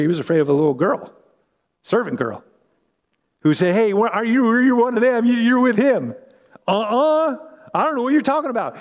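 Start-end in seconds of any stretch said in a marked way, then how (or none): 3.7-6.1 higher, pointed questioning; lightly voiced girl poking at him; accusing servant girl. Servant girl confronting Peter, lightly voiced accusing. 6.7-8.8 high, fast brush-off; nervous denial. Acted. Peter brushing off the servant girl, high and hurried.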